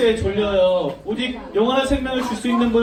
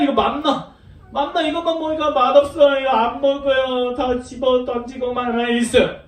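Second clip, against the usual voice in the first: whiny complaining; 2 semitones higher than usual. Acted. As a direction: play a fed-up, fussy eater, stretching the endings. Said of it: "막 짜증내고 불평하고 막 원망했어요".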